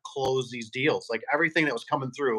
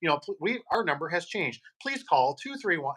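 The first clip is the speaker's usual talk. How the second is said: softer, higher recorded-message tone; posing as his answering machine; 4 semitones higher, 4 dB quieter than usual. Retold or imitated. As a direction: fake a flat recording. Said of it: "I sounded just like an answer machine".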